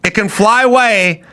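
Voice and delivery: high, laughing repeats; laughing disbelief. Real, not acted. Host watching the bird clip, laughing high. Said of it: "laughing disbelief at the bird".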